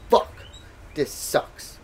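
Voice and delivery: soft whispered curse under the breath. Retold or imitated. Whispering a curse while forced to pose. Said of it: "I'm like".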